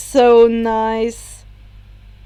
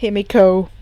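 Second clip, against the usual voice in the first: lower, calm address; steady her with his voice; 4 semitones lower, 4 dB louder than usual. Acted. Shoto calmly getting Himiko's attention. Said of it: "Shoto said calmly".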